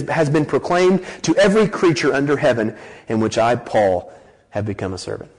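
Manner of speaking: emphatic, measured scripture reading from the pulpit. Acted. Preacher reading Paul's letter to the congregation, scripture reading.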